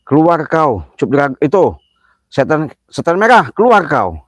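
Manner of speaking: calling out the unseen coward; furious shout. Real, not acted. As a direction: bellow a challenge into the dark. Shouting a challenge at spirits.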